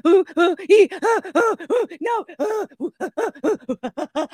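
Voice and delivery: high, rapid pained hoots; hammed-up yelps, trailing into whimpers; chimpanzee-like crying. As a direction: imitate a hurt kid whooping like a chimp. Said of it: "He sounded like a chimpanzee".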